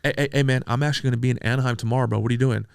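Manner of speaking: loud, fast, eager phone greeting; eager loud pitch. Retold or imitated. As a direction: burst in loud and quick, all hyped up. Manager calling him, suddenly eager.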